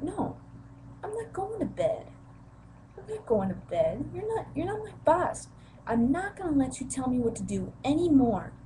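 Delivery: put-on teen shrieking defiance at stepmother; retold defiant yell. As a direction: scream it back at her.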